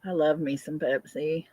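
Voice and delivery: whispered confession; hushed guilty-pleasure whisper. Real, not acted. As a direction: breathe it like a secret. Confessing Pepsi love, laughing.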